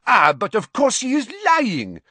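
loud, high accusation; crying out. A narrator's reading. Madame Maxime accusing Harry, crying out. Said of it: "cried Madame Maxime".

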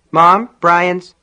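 put-on young boy starting to report trouble; anxious boy. A narrator's reading. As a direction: call urgently to Mom. Frightened boy tries telling his mother.

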